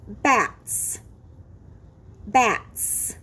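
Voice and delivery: low "Bats" with a drawn-out final s; clear ending sound. Shown as a demonstration. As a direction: present "Bats" alone, ending clearly hissed. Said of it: "you will say the ending sound".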